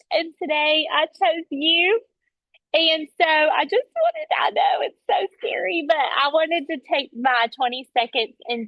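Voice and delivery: lightly imitated Southern Belle accent; a touch of cute Southern Belle in the sales pitch; Nikki Edgman. Coach acts out a colleague complimenting a stranger, light Southern Belle accent. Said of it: "She's so stinking cute with her Southern Belle accent".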